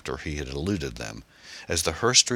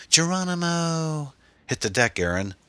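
shouted; 13 semitones higher, 4 dB louder than usual. A narrator's reading. Driver warning passenger before a blast, shouting. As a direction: shout it high, then warn urgently. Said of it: "Tom shouted".

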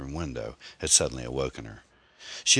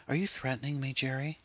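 high-pitched, incredulous question; utter shock; 11 semitones higher than usual. A narrator's reading. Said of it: "gaped at him in utter shock".

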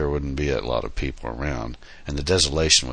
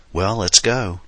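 bright, cheerful call, higher and louder; merry; 6 semitones higher, 5 dB louder, slower than usual. A narrator's reading. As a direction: chime it out merrily. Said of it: "he chimed merrily".

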